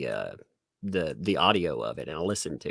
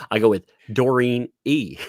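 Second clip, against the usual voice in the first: laughing; 4 semitones higher, 4 dB louder than usual. Real, not acted. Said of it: "I butcher everything because, you know, Southern".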